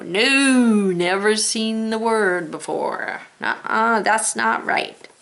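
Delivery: mildly playful warning no; alarm in your head. Pretend. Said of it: "the alarm should go".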